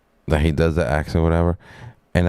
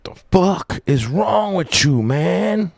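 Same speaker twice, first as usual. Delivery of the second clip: much higher squawked exclamation; high-pitched outburst; 12 semitones higher, slower than usual. Pretend. Streamer breaking off the Southern act, high-pitched outburst. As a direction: jump way up in pitch, incredulous.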